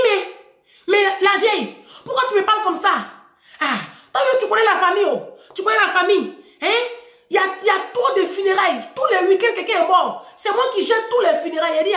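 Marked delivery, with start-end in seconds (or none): 0.0-3.0 high-pitched mock indignant dad; protesting father. Father asking his daughter why she talks so, indignant. 3.6-11.8 high, insistent mock-dad voice; father pleading excuses. Father explaining family funerals to his daughter, high and aggrieved.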